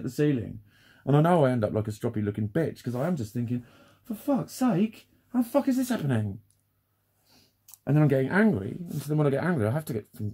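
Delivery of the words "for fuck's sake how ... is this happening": exasperated. Retold or imitated. Retold inner outburst.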